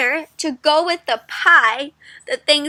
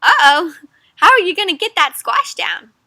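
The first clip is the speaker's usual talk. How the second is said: higher and louder worried voice; worried cat; 5 semitones higher, 6 dB louder than usual. Acted. The cat in the picture, worrying about the squash. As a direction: fret as the cat would. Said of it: "the cat's like".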